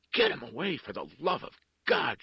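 loud, high, panicked cry; desperate repeated plea. A narrator's reading. Woman with her back against the door, pleading desperately. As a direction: beg for help at the top of the voice. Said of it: "she said over and over".

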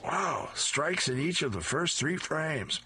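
high, slow gleeful wow; a senior thrilled by three strikes; excited shout. Acted. Grandma bowling strikes, high slow delighted call. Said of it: "Lola bowls the ball and shouts".

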